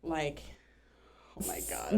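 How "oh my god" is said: hushed oh my God. Retold or imitated. Describing how overwhelmed she was.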